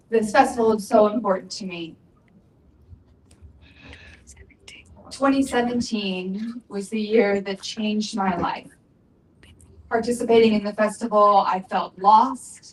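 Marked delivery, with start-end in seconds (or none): 0.1-8.6 speaking through held-back tears. Speaking at the festival's fifteenth anniversary, holding back tears. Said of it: "I'm trying not to cry".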